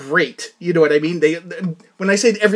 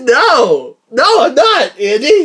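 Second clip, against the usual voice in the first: firm refusal; 5 semitones higher, 6 dB louder, much slower than usual. Retold or imitated. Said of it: "I said".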